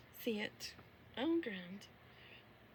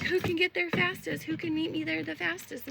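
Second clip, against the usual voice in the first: eager; 5 semitones higher, 6 dB louder than usual. Retold or imitated. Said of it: "I'm like".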